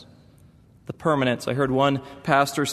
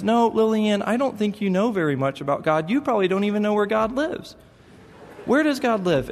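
put-on higher, earnest little boy explaining; voicing his son; 6 semitones higher than usual. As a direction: play a small boy reassuring his sister. Son quizzes sister.

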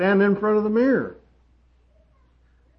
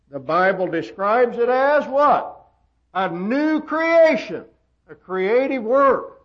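preacher's raised, insistent pitch; emphatic preaching; 5 semitones higher than usual. Acted. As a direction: press the point on the congregation.

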